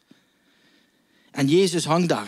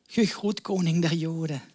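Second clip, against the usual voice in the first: mock the king lightly; mocking greeting; 3 semitones higher than usual. Soldiers mocking Jesus at the cross, a hint of scorn. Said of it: "ze gaan hem bespotten".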